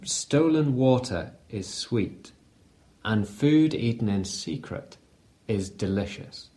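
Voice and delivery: acted secretive murmur, fading low; mock seductive whisper.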